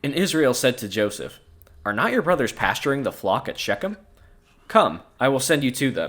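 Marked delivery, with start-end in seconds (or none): none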